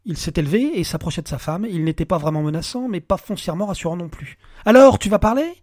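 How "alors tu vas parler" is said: demanding shout. Acted. Alex looming over his wife.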